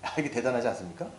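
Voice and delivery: ordinary talk, nothing marked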